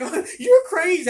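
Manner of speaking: very high, loud mimicry; affronted customer. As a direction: squeal it in mock outrage. Retold customer's shocked comeback.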